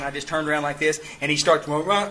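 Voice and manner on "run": imitating garbled, slurred speech; mock a man whose words can't be understood; unintelligible mumble. Newcomer asking for sponsorship, imitated as unintelligible mumbling. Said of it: "I can't understand him".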